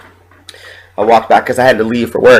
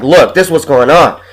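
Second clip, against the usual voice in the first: firm, insistent and a bit louder; adamant; 5 semitones higher, 4 dB louder than usual. Retold or imitated. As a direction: lay it down like you mean business. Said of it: "I came in pretty adamant sounding".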